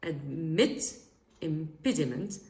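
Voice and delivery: "Admit" rising, pause, then "impediment"; consonance demonstration. Shown as a demonstration. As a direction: set "Admit" apart from "impediment" for learners. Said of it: "are considered as al-, consonances".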